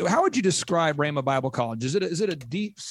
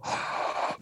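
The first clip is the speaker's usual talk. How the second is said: gasp; 5 dB quieter than usual. Retold or imitated. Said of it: "You're gonna go".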